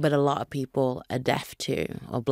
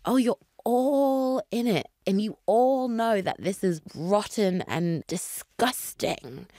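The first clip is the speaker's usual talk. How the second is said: mild mock indignation; 5 semitones higher than usual. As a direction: act out calling them all out. Acted reproach to those in cahoots.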